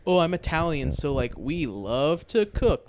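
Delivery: drawn-out mock pride; mocking cooking-show contestants. Host imitating Italian contestants, lightly mocking. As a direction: lightly imitate a self-important home cook. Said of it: "They think they're like".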